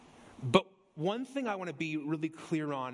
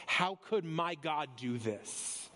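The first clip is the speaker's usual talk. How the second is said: higher, indignant Jonah whining at God; complaining Jonah; 4 semitones higher than usual. Retold or imitated. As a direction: voice Jonah's accusing complaint, lightly acted. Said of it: "Jonah has essentially said all throughout".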